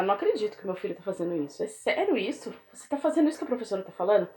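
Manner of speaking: fast, disbelieving scolding; incredulous parent. Retold or imitated. Parent confronting the child about the teacher's report, fast disbelief. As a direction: rattle it off like a shocked parent. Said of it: "e você fala".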